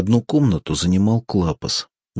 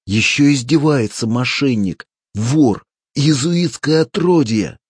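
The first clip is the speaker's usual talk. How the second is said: higher, louder raging yell; furious insults; 7 semitones higher, 5 dB louder than usual. A narrator's reading. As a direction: spit the insults out. Hurling insults in a fight.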